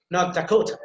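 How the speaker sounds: North Dakota, weight on Dakota; stress on DAKOTA. Shown as a demonstration. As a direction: lean on the second word, Dakota. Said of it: "that will be emphasized".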